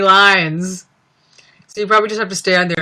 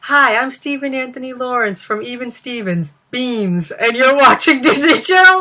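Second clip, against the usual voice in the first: botched channel ident; 5 semitones higher, 5 dB louder than usual. Retold or imitated. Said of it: "kept getting that wrong".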